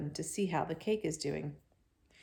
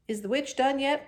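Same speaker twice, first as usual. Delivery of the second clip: put-on little girl; 8 semitones higher, 7 dB louder than usual. A narrator's reading. Ramona's innocent question.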